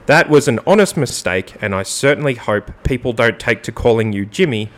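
mock-sincere statement read; sexy radio voice. Host reads co-host's apology for naming mistake, radio voice. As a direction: start lifted and emphatic, settle down to the close. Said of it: "get it in my sexy radio voice".

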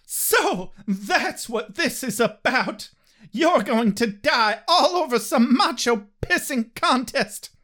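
hammed-up soap opera voices for both; dramatic reading. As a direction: melodramatic reading of a breakup scene.

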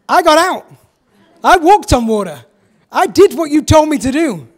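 a loud, wounded "I did what you told me"; indignant protest. Retold or imitated. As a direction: protest as Peter, hurt and defensive.

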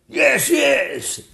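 high, loud agreeing king; excited king yelling. Acted. King backing the princess against the dragon, high and loud. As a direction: burst in eagerly. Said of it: "yelled the king".

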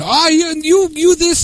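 high mock Asian accent; mocking, high Asian-accent imitation; heavy Asian accent. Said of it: "in a heavy Asian accent".

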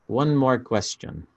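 put-on slow, lightly Russian-accented line; a hint of a Russian accent as Gorbachev. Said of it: "That's my Russian accent".

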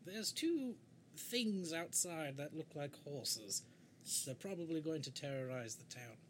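character calling companions. Acted. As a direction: call out in an affected adventurer's voice.

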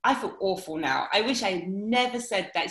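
lightly hammed-up, over-dramatic sorry; mild pantomime gushing regret; camped-up apology. Shown as a demonstration. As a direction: play a pantomime apology, half mocking. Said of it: "really camp it up and say".

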